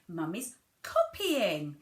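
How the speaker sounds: slow, drawn-out "copying"; model word for child. Shown as a demonstration. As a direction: stretch "copying" out for a toddler to learn.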